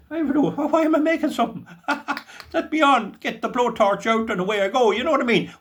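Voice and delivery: high, laughing through the words. Real, not acted. Farmer joking to his viewers about melting silver, laughing high. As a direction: giggle at your own silly idea, pitch up high.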